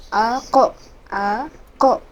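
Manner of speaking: আ, ক with ক bounced upward; qalqalah drill. Shown as a demonstration. Teacher drills pupils on the bounced ক. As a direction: repeat আ, ক and echo each ক up. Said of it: "উপরের দিকে কলকলা হবে".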